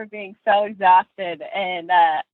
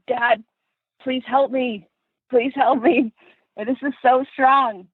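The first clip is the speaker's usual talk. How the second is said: put-on pleading kid; 7 semitones higher than usual. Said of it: "And I was like".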